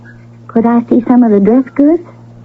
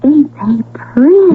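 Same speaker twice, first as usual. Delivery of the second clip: awed whisper; 2 semitones higher, slower than usual. Acted. Lucy admiring fancy cloth.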